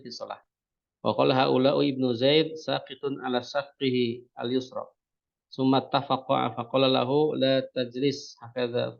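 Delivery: slow, measured hadith recitation; Arabic recitation. Acted. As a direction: recite the Arabic text carefully.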